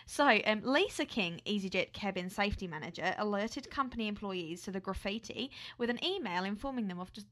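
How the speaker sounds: an attempted Aussie accent; put-on Australian accent. Co-host starting the airline story, put-on Australian accent. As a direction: present the story as a playful Australian. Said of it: "do the rest of the podcast like this".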